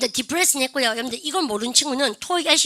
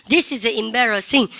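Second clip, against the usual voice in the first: each word drawn out for students to repeat; slow, careful classroom demo sentence; slow model reading; much slower than usual. Shown as a demonstration. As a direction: read it very slowly and clearly, like a teacher's model. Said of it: "시작".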